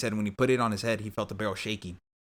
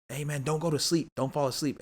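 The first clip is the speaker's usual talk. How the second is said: higher, lightly voiced rescuer; retold urging; 5 semitones higher than usual. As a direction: gently act out keeping someone awake. Acts officer rousing the wounded man.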